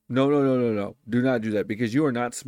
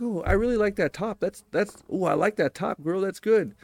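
raised, bright compliment; sample compliment; 5 semitones higher than usual. Shown as a demonstration. Showing viewers how to compliment a girl, bright. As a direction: show how easy a compliment sounds. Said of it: "Be like".

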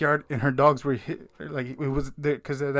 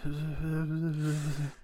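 backwards speech; 7 dB quieter than usual. Retold or imitated. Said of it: "And all you hear is like".

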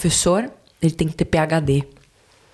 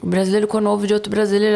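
ordinary delivery

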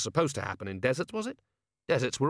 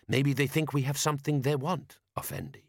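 higher desert-man character voice; Jabbar; 4 semitones higher than usual. A narrator's reading. Desert man explaining the attack to Vimes, measured character voice.

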